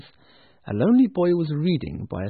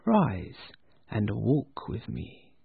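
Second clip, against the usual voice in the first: gentle ghost; 3 semitones lower, 4 dB quieter, much slower than usual. Acted. Ghost speaks gently to Scrooge.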